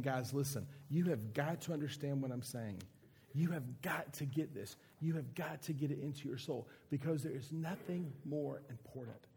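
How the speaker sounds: a preacher voicing a desperate Jesus; desperate plea. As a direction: beg them to understand. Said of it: "I almost hear a desperation in Jesus' voice".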